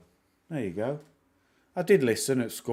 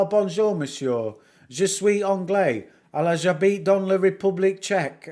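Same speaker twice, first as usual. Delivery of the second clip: put-on raised, hearty French in a Northern English accent; 7 semitones higher, 4 dB louder than usual. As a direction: greet them in French with broad Northern English vowels. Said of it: "I talk French in my Northern English accent".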